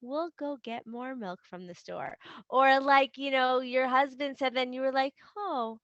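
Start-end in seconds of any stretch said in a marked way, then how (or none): 0.0-2.2 softer, gentle replay of a calm parent; calm and kind. Retold or imitated. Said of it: "you stayed calm". 5.4-5.8 higher, softer, gently curious; calm and curious. Retold or imitated. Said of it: "you stayed calm".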